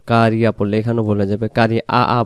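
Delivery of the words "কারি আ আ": কারি আ আ with the ain dropped to a plain vowel; wrong ain. Shown as a demonstration. Teacher showing students the mistake: কারি আ আ with no ain. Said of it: "আইন অক্ষর ভুল হয়ে যাবে".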